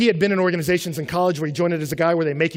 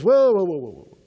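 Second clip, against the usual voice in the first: urgent stop; 5 dB louder than usual. Retold or imitated. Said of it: "And God says".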